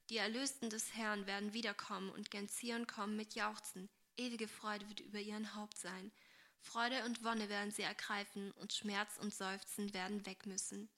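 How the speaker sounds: measured, solemn scripture reading; Bible reading. Acted. Agnes reading favourite verses to Esther, solemn. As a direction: read the verses reverently, a little subdued.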